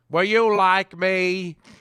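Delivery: slow, high, laid-on fake Southern drawl. Imitating a coach faking a Southern accent: Brian Kelly fake Southern accent. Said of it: "Brian Kelly was pretending to be Southern".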